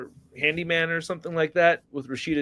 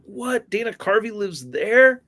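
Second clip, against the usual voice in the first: retold surprise; 5 semitones higher, 3 dB louder than usual. Acting out past surprise at news.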